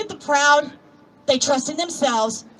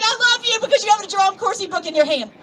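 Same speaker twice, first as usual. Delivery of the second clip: gushing; 5 semitones higher than usual. Retold or imitated. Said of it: "I'm like".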